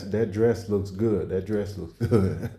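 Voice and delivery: slow, smooth compliment. Retold or imitated. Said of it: "Oh, I like that dress".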